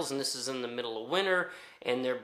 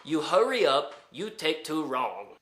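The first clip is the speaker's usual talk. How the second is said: lightly voiced repeat, no real shout; milder retold bellboy. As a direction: say it again calmly, just quoting him. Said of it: "got told from the bellboy".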